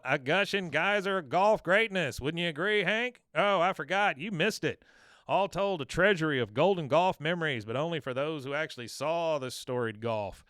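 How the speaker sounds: a pompous broadcaster taunting Hank; Dale gloating announcer. Retold or imitated. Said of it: "you hear Dale".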